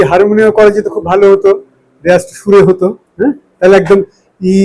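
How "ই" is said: ই held as long as the breath lasts; long drawn-out vowel. Shown as a demonstration. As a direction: stretch the vowel ই out on one breath. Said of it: "যতক্ষণ ই পারেন".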